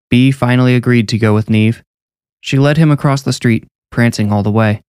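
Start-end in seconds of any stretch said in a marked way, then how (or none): none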